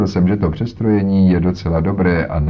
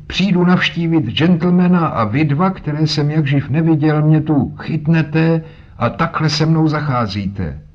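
put-on higher, louder indignant old voice, slowing at the end; outraged old man; 8 semitones higher, 3 dB louder than usual. Old man complaining to the two strangers, loud and indignant. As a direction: protest the rough treatment with offended pride. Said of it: "zvolal a třískl holí".

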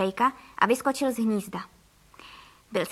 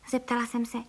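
ordinary delivery, nothing marked

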